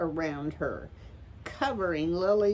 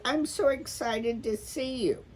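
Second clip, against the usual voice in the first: laughing; 8 semitones higher than usual. A narrator's reading. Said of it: "said a laughing Poppy".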